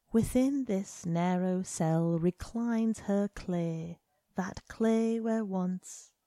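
slow verse recital, cut off; poem reading. A narrator's reading. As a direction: read the stanza slowly. Reads second stanza.

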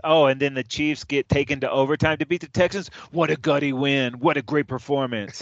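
sarcastic gushing; mock praise. Sports host parodying fawning praise of the Chiefs, mock admiration. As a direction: parody an admiring pundit, lightly overdone. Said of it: "the narrative is so different".

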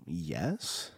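low, soft retold "yes"; quiet, reluctant acknowledgement; wary answer. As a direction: answer low and guarded, lightly acted.

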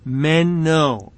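"meno" said as men-oh; deliberate "meno" with a short e and closing oh; correct pronunciation. Shown as a demonstration. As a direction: say "meno" carefully, e first, long o last. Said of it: "the Greek word is".

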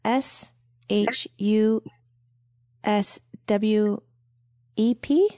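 slow letter by letter spelling. Shown as a demonstration. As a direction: spell each letter slowly, unsure. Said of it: "spell one word".

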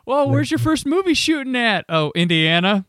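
high, bright-eyed mock actor voice; mock excited actor. Mocking a young actor off to Hollywood, high excited voice.

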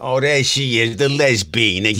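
Archie Bunker. Retold or imitated. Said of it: "bring out Archie Bunker".

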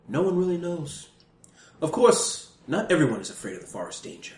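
put-on British scholar reading a guidebook; hammed-up British guidebook narration; silly British accent. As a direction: read it out in a mock-British narrator voice. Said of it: "I'm using a British accent".

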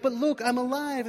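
high, loud, joyful reveal; excited insistence. Retold or imitated. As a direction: announce it with voice way up. Joseph convinces his brothers.

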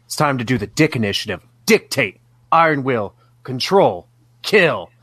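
punchy self-motivation chant, each word hit; psyching himself up. Acted. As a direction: recite business mantras to pump yourself up. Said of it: "Rupert's psyching himself up".

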